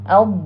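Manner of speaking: "Al-" closed on a held Arabic Dad; articulation demo. Shown as a demonstration. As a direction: press "Al-" into a sustained heavy d sound. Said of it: "contohnya kan".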